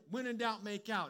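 light mock of the tempting motto; tempting slogan. Preacher mocking the tempting thought before correcting it. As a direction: toss it off like a cheeky rule. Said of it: "'Cause you're thinking".

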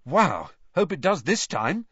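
put-on boy thrilled at the thought; enthusiastic. A narrator's reading. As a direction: say it full of delight. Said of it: "said Harry enthusiastically".

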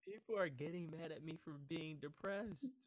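high-pitched mock disbelief; incredulous. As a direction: protest it high, in comic disbelief. Retelling his incredulous reaction to friends.

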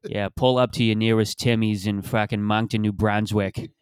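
put-on slow Boston accent ad guy; hammed-up Boston ad read, drawn out. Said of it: "you do the Boston accent".

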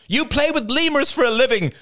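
high, loud, scornful shout; indignant cry. A narrator's reading. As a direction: hurl it at him mid-quarrel. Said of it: "cried Rachel".

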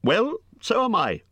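high, loud exasperated cry. A narrator's reading. Hobbit tells the creature he is lost too, crying out. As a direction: cry it out in protest. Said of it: "cried Bilbo".

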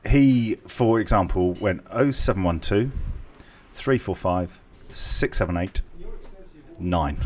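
grouped digits with clear pauses between groups; spaced-out phone number read; phone number readout. Shown as a demonstration. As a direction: read the number out in chunks, slowly. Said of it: "right, okay, so".

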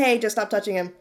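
mild, casual correction; calm instruction. Retold or imitated. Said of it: "I said it in that voice".

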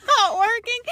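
high, drawn-out baffled question; retold bewilderment. Husband questioning sleep-talking wife, high mock bewilderment. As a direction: stretch out a mock-incredulous question. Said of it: "he said".

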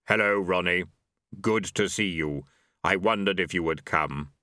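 low, calm solemn voice; low Death voice. Acted. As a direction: speak as grim calm Death.

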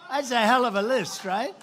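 "hell" stressed high through a laugh. Real, not acted. Laughs, then repeats louder.

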